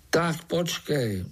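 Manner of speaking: slow puzzled warning; said slowly. A narrator's reading. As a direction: draw it out, buying time. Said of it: "řekl pomalu".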